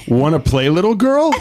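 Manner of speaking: a hint of a creepy old man; leering wheezy old man. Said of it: "Creepy old man voice".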